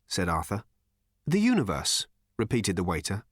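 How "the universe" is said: THE UNIVERSE higher and overly clearly articulated; very distinct. A narrator's reading. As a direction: enunciate "The universe" with needless precision. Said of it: "very clearly and unnecessarily distinctly".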